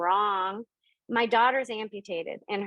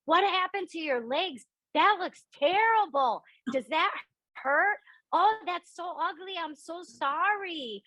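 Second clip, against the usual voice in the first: put-on shocked six-year-old, pitched way up; blurting child's reaction; 8 semitones higher than usual. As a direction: blurt it in a high, dismayed child's voice. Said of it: "That's what I said".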